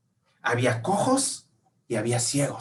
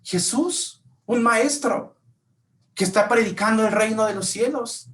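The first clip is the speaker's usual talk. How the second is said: high, bright telling; excited news; 8 semitones higher than usual. Pretend. Passerby tells the blind man about Jesus, excited. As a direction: tell it like thrilling gossip.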